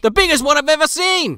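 lightly voiced Australian host; nature host. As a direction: marvel like a TV nature presenter. Continues the Irwin host bit.

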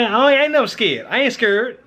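talking with mouth full; words through a mouthful of food. Real, not acted. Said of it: "don't talk with your mouth full".

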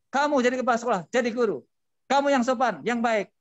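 imitating an angry driver. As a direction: play the rude driver lecturing the principal. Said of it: "semakin marah lagi". (meniru pengemudi marah yang menegur kepala sekolah)

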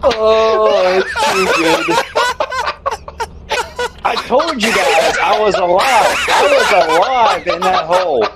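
talking through laughter; laughing. Real, not acted. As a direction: laugh while you insist. Laughing after survival.

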